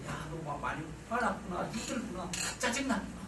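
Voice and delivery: soft, soothing acknowledgement; gently mirror the child's feelings; quiet, empathetic tone; understanding parent. Shown as a demonstration. Models empathic mind-reading to a child.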